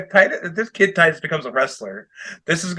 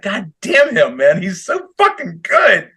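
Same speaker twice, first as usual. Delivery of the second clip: excited; 6 semitones higher, slower than usual. Retold or imitated. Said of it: "I was just like".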